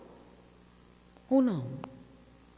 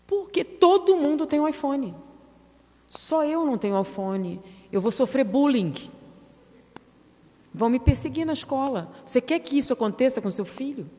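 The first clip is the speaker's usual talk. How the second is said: put-on whining child; 4 semitones higher than usual. Child pleading to parent.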